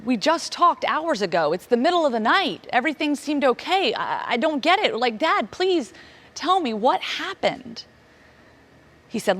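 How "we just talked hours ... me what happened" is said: desperate pleading. Retold or imitated. Pleading with dad in shock.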